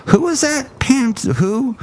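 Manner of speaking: high, puzzled mock voice; puzzled public. Fans who forgot the singer, puzzled and high. Forgetful public, acted quote.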